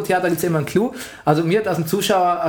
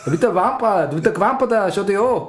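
hammed-up Austrian accent, cocky; 2 semitones higher than usual. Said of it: "Mach Mario Götze mit österreichischem Akzent".

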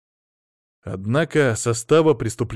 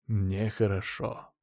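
slow soft echo; 2 semitones lower, 7 dB quieter, much slower than usual. A narrator's reading.

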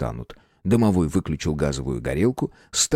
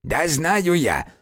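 snapping back; 9 semitones higher, much slower than usual. A narrator's reading. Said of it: "огрызнулся лохматый домовой".

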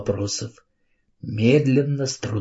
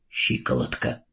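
much lower and softer, mumbled; muttered; 10 semitones lower, 6 dB quieter than usual. A narrator's reading. Miss Price answers Carrie about her injury, mumbling. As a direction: barely get the word out. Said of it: "пробормотала она".

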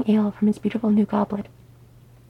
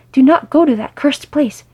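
loud, higher, desperate warning; almost shout the warning, pitched up; near shout; 5 semitones higher, 9 dB louder than usual. Acted. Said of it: "Thorin all but shouted".

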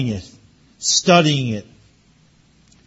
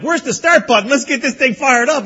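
mock eager; 7 semitones higher, 4 dB louder than usual. Eager pastor in plane.

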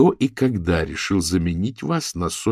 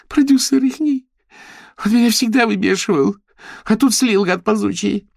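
high, loud sobbing complaint; much higher, crying rant; tearful wailing; 7 dB louder than usual. Acted. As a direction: whine through tears. Paulina still upset.

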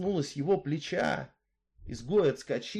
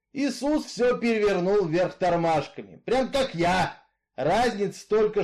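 louder, steady outlaw's voice, arguing his case; Misfit, brooding killer; 2 semitones higher, 5 dB louder than usual. Acted. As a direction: tell her your grievance, hard and level. Misfit's long speech. (голос Изгоя, громче и жёстче)

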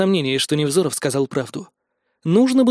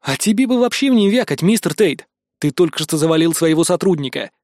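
angry growl. Acted. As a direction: put the prisoner down with contained anger. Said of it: "злобно прорычал я". (сдержанно злая отповедь)

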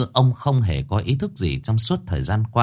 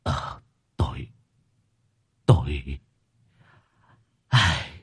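slow, halting, sorrowful confession; quiet grief; slower than usual. A narrator's reading. Grieving father admits his mistakes, halting and sorrowful. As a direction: falter through the words with grief. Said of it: "rồi lặng lẽ gật đầu".

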